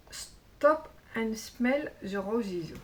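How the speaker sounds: Englischer Titel, langsam mit französischem Akzent gelesen; French-accented English. Real, not acted. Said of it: "superbe accent anglais".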